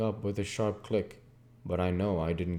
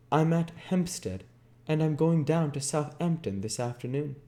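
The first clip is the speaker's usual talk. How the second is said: harsh, dry Jordan; 8 semitones higher than usual. A narrator's reading. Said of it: "it seemed harsh and dry".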